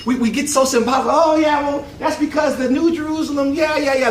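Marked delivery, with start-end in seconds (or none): 1.1-4.1 mock dismissive believer. Mocking overly symbolic Christians.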